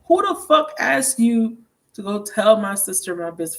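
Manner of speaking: loud, high outraged snap at the gossip; retold furious outburst. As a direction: yell at him for telling her sister. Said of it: "I'm like".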